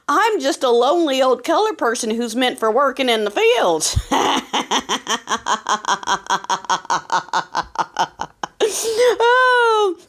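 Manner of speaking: laughing through a mock lament. Real, not acted. Host mocking herself to viewers, breaking into laughter. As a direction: crack up mid-sentence.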